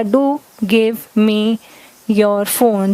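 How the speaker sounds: slow firm Do give me your phone; stress on do. Shown as a demonstration. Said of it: "अब बात पे जोर आ गया".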